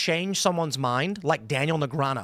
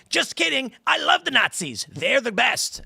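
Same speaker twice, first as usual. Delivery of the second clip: high, mocking fake Trump voice; fake Trump quote; 8 semitones higher than usual. Retelling a fake AI Trump clip, mocking high voice. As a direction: ham up a doctored Trump clip, pitched up. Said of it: "it's Trump going".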